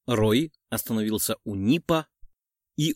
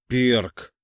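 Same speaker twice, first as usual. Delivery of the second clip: breathed out; 5 dB louder than usual. A narrator's reading. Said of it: "выдохнул я".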